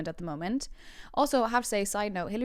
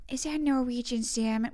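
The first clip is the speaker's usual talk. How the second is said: a light first attempt at the actress's voice, higher; Jennifer Coolidge; 4 semitones higher than usual. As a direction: try out a hint of the film character. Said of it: "Jennifer Coolidge is my most proud impression".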